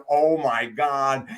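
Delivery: loud, slow, overwhelmed gasp of words; imitated freak-out. Woman as her boyfriend kneels to propose, freaking out. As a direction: act out her stunned excitement. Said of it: "she's freaking out".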